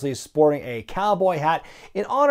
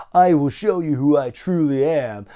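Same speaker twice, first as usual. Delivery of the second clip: lightly imitated loudspeaker proclamation; a hint of a grand, mysterious ruler; mock-ominous announcement; Kevin Nash as Oz. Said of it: "you hear his voice on the loudspeaker saying".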